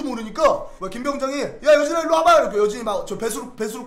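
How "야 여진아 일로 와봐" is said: louder and higher, calling across the barracks. Retold or imitated. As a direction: call him over from afar. Sergeant calls soldier over.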